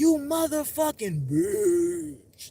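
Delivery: voice twisted into a high, rough demon's. Retelling hearing someone curse whose voice turned to sound like a demon: demon voice. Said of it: "they voice turned to sound like a demon".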